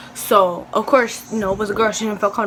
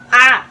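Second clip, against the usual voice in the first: loud yelp at stinging eyes; real yelp of discomfort; pained "ah"; 3 semitones higher, 9 dB louder than usual. Real, not acted. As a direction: cry out from a sudden sting. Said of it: "burning my eyes".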